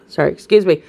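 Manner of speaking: allergy-clogged throat; throat-clearing. Real, not acted. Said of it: "I'm choking through this with my, uh, my allergies".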